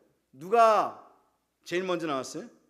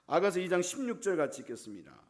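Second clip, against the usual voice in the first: usual speaking voice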